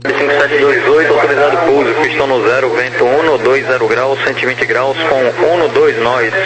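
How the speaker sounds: crackly radio transmission voice; clipped controller over the radio; air traffic control radio. Real, not acted. Tower clearance read over radio.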